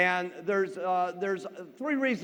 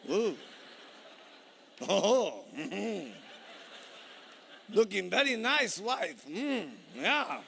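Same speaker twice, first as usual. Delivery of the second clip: low, appreciative hums and purrs; hammed-up low, approving murmur; leering admiring husband; 3 semitones lower, 4 dB quieter, slower than usual. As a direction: savor it like a smitten husband. Husband admires his slimmer wife.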